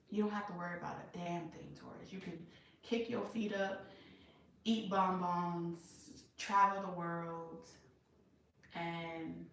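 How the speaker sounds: lightly voiced lover, proposing; gently acting out a partner's promises; imitating the devoted partner. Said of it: "I'm gonna talk like this person for a second".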